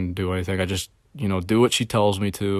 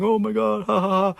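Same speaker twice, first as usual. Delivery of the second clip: much higher, mock giggle of the fake-happy cashier; mock giggly laugh; 11 semitones higher than usual. Mimicking the cashier laughing upstairs, high mock giggle. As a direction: squeal it like a phony bubbly laugh.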